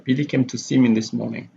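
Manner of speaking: "Billy" stressed at the start of the sentence. Shown as a demonstration. Teacher repeats the example for class, stress on "Billy". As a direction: lean on "Billy", the rest lighter. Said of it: "the stress is on Billy here".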